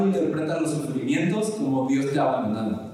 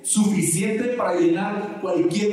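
emphatic, higher-pitched protest; insistent reassurance; 5 semitones higher than usual. Acted. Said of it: "Dios dice así de". (negando con insistencia, en tono más agudo)

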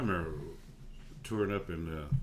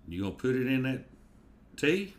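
incredulous waiter; 4 semitones higher than usual. Retold or imitated. Waiter's disbelief at the ice request.

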